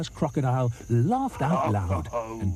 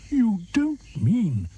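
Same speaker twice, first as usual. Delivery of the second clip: slow whisper, shocked; horrified whisper; 11 semitones higher, much slower than usual. Acted. Hippo whispers to the crocodile in horror. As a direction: gasp it out in horror. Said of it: "said Humpy Rumpy".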